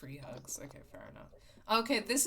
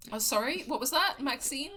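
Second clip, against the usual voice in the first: mock sarcastic; 10 semitones higher, 9 dB louder than usual. Mocking a friend's bad joke.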